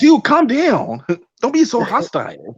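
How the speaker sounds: high, slow mock, breaking into a laugh; coworker's dismissive voice. Retelling the racist coworker, a slow high mock cracking up. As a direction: drag it out, laughing at how dumb it was. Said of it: "He said".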